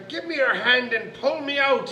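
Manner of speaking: bad-tempered little man demanding help; little man's roar. A narrator's reading. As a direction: order her crossly as the leprechaun. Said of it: "as a tiny little man could roar".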